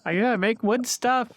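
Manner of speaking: silly goofy voice. Pretend. Joining the silly voice bit.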